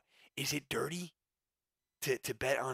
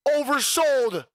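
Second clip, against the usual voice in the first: scoffing; 10 semitones higher, 9 dB louder, much slower than usual. Real, not acted. Scoffing repeat after shout.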